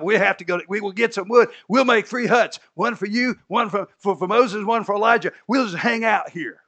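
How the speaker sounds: excited, high, loud pleading; a breathless, eager disciple rushing his plan; hammed-up eager Peter. Preacher acts out Peter's eager plea.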